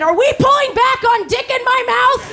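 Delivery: high-pitched comic rant; mock outrage. Comic threatening her own audience, in mock outrage. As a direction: climb high and scold the room.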